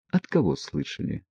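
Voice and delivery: quiet, startled question; hushed and fearful. A narrator's reading. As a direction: ask softly, suddenly frightened. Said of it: "пугливо встрепенулась Аглая".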